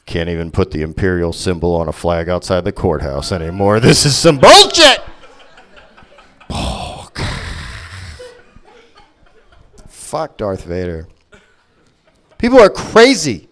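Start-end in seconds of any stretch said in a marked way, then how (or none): 0.1-11.1 grumbling bigot Vader. Acted. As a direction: growl it like a bitter has-been villain.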